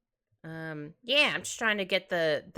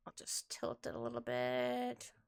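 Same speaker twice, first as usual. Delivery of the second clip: whispering; 3 semitones higher, 9 dB quieter, slower than usual. Real, not acted. Quietly talking to herself.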